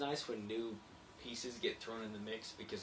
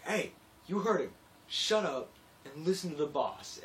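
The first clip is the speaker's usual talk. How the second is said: loud, higher mock bark; iron worker barking; 6 semitones higher, 8 dB louder than usual. Iron worker telling the coworker off, loud. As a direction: shout it like a gruff worker backing the boss. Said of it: "the iron worker's like".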